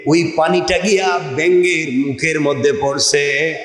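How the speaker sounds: rhythmic chant with stretched endings; intoned sermon storytelling. Acted. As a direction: tell the tale in a preacher's cadence. Preacher intones frog's story.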